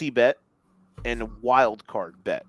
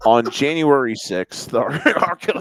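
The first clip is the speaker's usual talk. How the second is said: echoing announcer; 2 semitones lower, 6 dB louder than usual. Acted. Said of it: "Send that shit to the White House".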